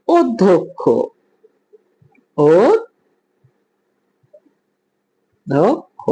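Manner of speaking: অধ্যক্ষ as "od-dhok-kho", rounded o; correct o pronunciation. Shown as a demonstration. Teacher models the answer for students, অধ্যক্ষ as "oddhokkho". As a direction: sound out অধ্যক্ষ with o vowels, broken by syllable. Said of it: "এটার উচ্চারণ হবে".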